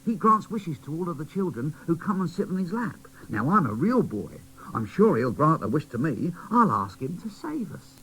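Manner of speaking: put-on high, bright child voice; boy doll urging the toys to play, high; cheerful little boy doll. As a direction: cheer them up. Quincy's plan.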